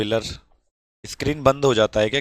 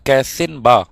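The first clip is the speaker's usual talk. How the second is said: Bhojpuri phrase; 7 dB louder, slower than usual. Shown as a demonstration. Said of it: "ऐसे ही बोला जाएगा कि कैसे हैं आप".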